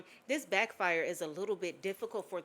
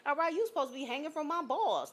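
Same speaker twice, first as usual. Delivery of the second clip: frustrated ex; 8 semitones higher than usual. Retold or imitated. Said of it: "the energy of somebody frustrated".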